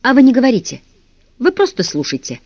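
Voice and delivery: pleading. Acted. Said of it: "попросил Ластик".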